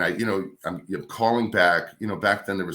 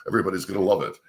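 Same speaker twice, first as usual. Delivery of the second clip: radio voice; faster than usual. Shown as a demonstration. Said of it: "like, radio voice".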